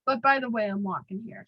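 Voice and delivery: mock New York street accent. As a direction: play the brusque New Yorker, in accent. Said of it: "I'm trying to do my best accent".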